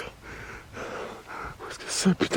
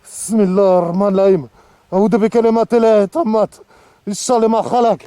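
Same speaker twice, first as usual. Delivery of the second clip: frantic prayer; 6 semitones higher, 7 dB louder, faster than usual. Real, not acted. Reciting protective prayer in fear.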